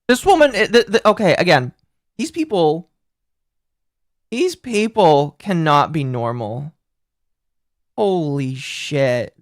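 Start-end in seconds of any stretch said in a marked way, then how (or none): 4.3-9.3 stunned disbelief. Real, not acted.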